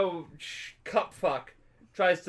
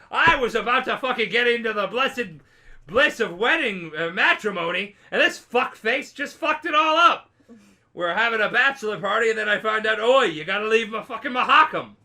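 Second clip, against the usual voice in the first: loud, higher indignant rant; ranting dwarf; 7 semitones higher, 8 dB louder than usual. Retold or imitated. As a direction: rage about the ruined wedding. Zoltan rants about canceled wedding.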